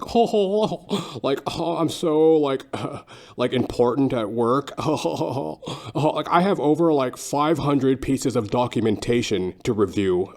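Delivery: high, pompous braggart voice with ho-ho chuckles; boastful guy. Retold or imitated. Mimicking a guy boasting to his girlfriend, pompous and high. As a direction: puff up like a smug self-important office guy. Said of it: "he was boasting to his girlfriend".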